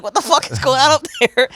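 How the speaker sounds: high, loud put-on voice of a startled squatter. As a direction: play the woken-up guy yelling up the stairs.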